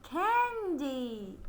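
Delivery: Candy blended quickly into one word; said fast. Shown as a demonstration. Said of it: "So let's say it fast".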